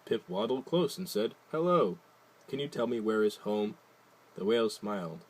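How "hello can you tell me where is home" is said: eager greeting. Acted. Penguin greets whale.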